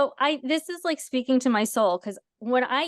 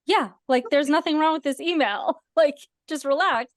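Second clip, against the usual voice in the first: calming colleague; 5 semitones higher than usual. Retold or imitated. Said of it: "somebody else needs to, like, check me".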